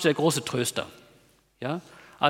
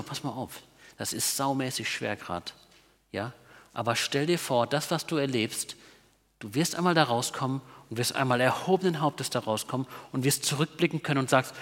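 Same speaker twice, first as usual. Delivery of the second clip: gentle voice of God; 4 semitones lower, 5 dB quieter than usual. Retold or imitated. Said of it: "dann sagt Gott denen so".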